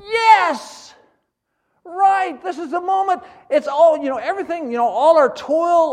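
loud, high, jubilant outburst; thrilled disciples. Retold or imitated. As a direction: crow over a dream coming true. Disciples thrilled about coming kingship.

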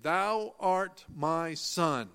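"Thou art my son" drawn out, each word weighted; emphatic statement. Shown as a demonstration. Preacher declaring scripture to congregation, slow emphatic words. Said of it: "It is a clear, emphatic statement".

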